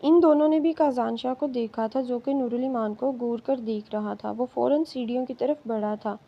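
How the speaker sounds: ordinary delivery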